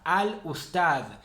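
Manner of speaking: slow 'Al-Ustad' with the L sounded; full lunar article. Shown as a demonstration. Teacher gives a lunar example, slow clear 'Al-Ustad'. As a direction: draw out 'Al-Ustad', keeping the L. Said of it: "se lee al".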